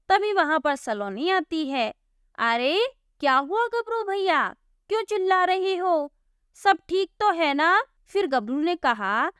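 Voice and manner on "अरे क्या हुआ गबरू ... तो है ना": lightly voiced gentle sister, worried; concerned girl. Saloni asks Gabru what the shouting is about, worried. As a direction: ask with mild concern.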